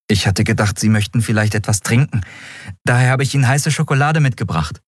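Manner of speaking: put-on polite young deckhand, a little quick; lightly voiced young boy. Boy brings his captain hot chocolate, lightly voiced and polite. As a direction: lightly play a boy offering something politely.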